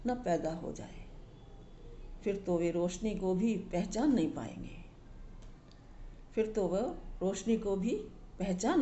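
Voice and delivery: measured, emphatic poetry reading with pauses between phrases; poem recitation. Acted. Reading a Sindhi poem in Hindi to viewers, measured recitation.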